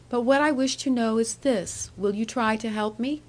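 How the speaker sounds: coaxing young woman, lightly voiced. Annie asks for help.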